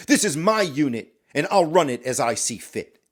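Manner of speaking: firm, mildly heated retort; angry snap. Acted. Captain snapping back at the corporal, mildly angry. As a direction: assert command with some force. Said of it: "he snaps back at you".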